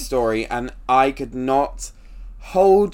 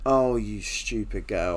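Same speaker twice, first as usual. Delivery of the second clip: wicked stepmother; 5 semitones lower, 5 dB quieter, slower than usual. Acted. Repeats scolding more softly.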